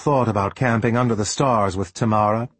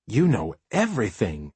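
amazed; 2 semitones lower than usual. Acted.

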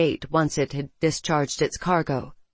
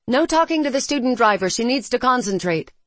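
teasing; 6 semitones higher, 3 dB louder than usual. Acted. Jurelia teasing instructor.

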